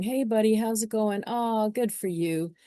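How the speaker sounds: a lightly voiced patronizing parent, slowing right down; a parent patronizing a young boy, mildly condescending. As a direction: talk down to the kid like a condescending adult. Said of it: "a parent figure coming in there going".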